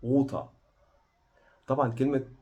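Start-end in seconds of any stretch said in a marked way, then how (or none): 0.1-0.4 "water" with long rounded first vowel, no r; British water. Shown as a demonstration. Teacher repeating British "water" slowly for learners. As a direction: hold the vowel of "water", soft t. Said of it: "خدت بالك من water؟".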